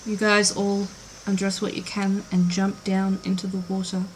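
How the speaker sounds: soft, measured scene-setting; hushed storyteller at the table; game master narration. Acted. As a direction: narrate the scene quietly and evenly.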